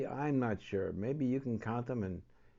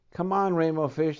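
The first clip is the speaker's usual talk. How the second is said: louder, cheerful call across the water; 5 semitones higher, 11 dB louder than usual. Acted. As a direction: shout a happy invitation. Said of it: "they called".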